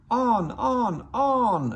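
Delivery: high, loud urging chant of the trucks. A narrator's reading. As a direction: egg him on like a pack of silly trucks. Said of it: "urged the stupid trucks".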